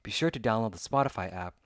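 upbeat, even podcast sponsor read. Acted. Host reading a Spotify ad to listeners, smooth ad read. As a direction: sell it like a radio spot.

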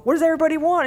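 high hype-man question; hype call. Retold or imitated. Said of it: "or I'll go".

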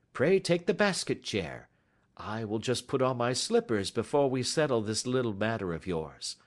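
lightly voiced genial detective host; Sherlock Holmes. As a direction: chat politely, putting the guest at ease.

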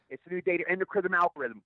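"endocrine" said instead of "encryption"; flubbed line. Retold or imitated. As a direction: stumble into "endocrine" in place of "encryption". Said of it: "I kept screwing it up".

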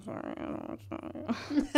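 sheepish apology that dissolves into a laugh; nervous laughing apology. Pretend. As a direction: laugh it off, slow and embarrassed. Imagined awkward apology to coworker.

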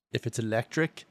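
lightly voiced tagline, dropping soft at the end; mock ad slogan. Co-host pitching a joke slogan for an electric company, mock-ad delivery. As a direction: deliver it like a commercial's quiet closing line.

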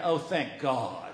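soft low relieved sigh of words. Retold or imitated. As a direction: mutter your relief. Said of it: "I'm thinking".

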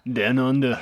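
Down Under in a giggly fake Australian accent, Down like dan; bad Australian, laughing through it; laughing mock Australian. Co-host laughing while faking an Australian accent. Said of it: "we have terrible accents".

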